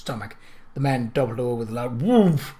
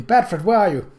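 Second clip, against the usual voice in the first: higher, louder searching call; 7 semitones higher, 6 dB louder than usual. Acted. Kate calls for Bradford through the crowd, high and loud. Still calling over the din.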